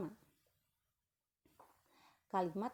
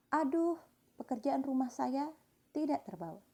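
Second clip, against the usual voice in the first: dismayed exclamation; 4 semitones higher than usual. Shown as a demonstration. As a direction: gasp out an example of dismay. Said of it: "ditandai oleh menaiknya suara pada kalimat lisan".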